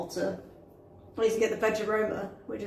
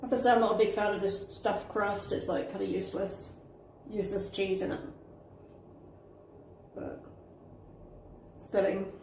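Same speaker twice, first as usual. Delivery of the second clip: talking with a mouth full; eating fast between words; wolfing down food; 5 dB quieter than usual. Real, not acted. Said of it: "I'm kind of just wolfing this down".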